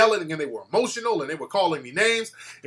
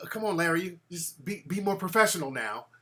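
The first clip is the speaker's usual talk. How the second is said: softer, placating host voice; calming quote; 6 dB quieter than usual. Retold or imitated. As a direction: settle them down gently. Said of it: "he had to tell the other guy".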